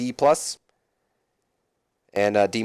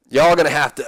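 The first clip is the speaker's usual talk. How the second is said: raised, badly faked wrestler voice; bad Stone Cold; 3 semitones higher, 4 dB louder than usual. Austin addressing the crowd, badly imitated. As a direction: attempt a tough wrestler and miss. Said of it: "I can't do a Stone Cold".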